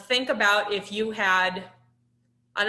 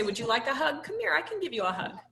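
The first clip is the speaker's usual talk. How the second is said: higher, soft and quick, inviting a hug; offering a hug; 3 semitones higher, 4 dB quieter, faster than usual. Shown as a demonstration. Caregiver offering a hug to crying Sam, softly and higher. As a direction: open your arms with your voice.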